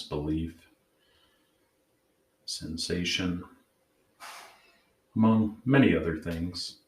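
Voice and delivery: calm, measured meditation guide; guided meditation. Acted. Host leading listeners to check in with their inner parts, guided meditation. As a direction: gently guide them inward, leaving long pauses.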